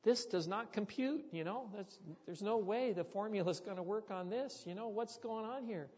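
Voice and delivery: put-on a young pastor who can't make it add up; shocked inner voice. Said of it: "I'm just shocked as a young pastor".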